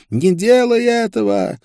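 high, strangled scream of protest; screamed plea. A narrator's reading. Maria cries from her cell to stop it, screaming. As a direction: cry out shrilly in horror, loud and high. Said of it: "кричала она".

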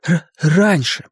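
high, slow stammer; stuttering. A narrator's reading. Bill adds that the album was open, stuttering. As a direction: stick on the first consonant, drag it out.

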